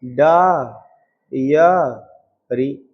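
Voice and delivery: da, ya, ri split apart slowly; डा या री, each syllable separate. Shown as a demonstration. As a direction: break diary into its three sounds. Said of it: "हम लोग ये बोलते हैं".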